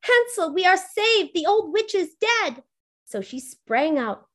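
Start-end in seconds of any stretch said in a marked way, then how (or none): 0.0-2.6 high, bright cry of relief; girl calling to her brother, high and joyful. A narrator's reading. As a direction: call out the good news in high delight. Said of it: "called out".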